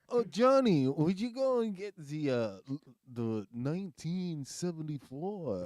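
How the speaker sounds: high, loud mock upper-crust accent; Thurston Howell. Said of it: "Thurston Howell?".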